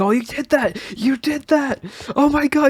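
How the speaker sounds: put-on shrill, thrilled, very high, happy sing-song cheer. Retell hearing Jaw's voice in the distance after you got out, imitating Jaw all excited and happy. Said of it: "like all excited and happy".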